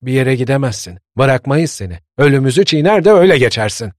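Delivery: put-on desperate old people begging. A narrator's reading. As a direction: beg him desperately not to go. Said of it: "durmadan yalvarıyorlardı".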